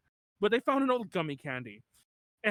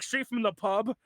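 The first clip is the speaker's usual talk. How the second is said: "Straight from the pub" in a light mock Australian accent; hint of a harsh Australian pub voice on "Straight from the pub"; slower than usual. Describing the band's accent, a light Australian "Straight from the pub". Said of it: "very harsh Australian accents".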